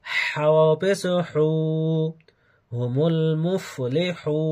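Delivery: slow, measured Quran spelling drill; spelled-out recitation. Shown as a demonstration. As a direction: sound it out, then stretch the long vowels. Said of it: "বানান সহ উচ্চারণ করে". (বানান করে টেনে টেনে উচ্চারণ)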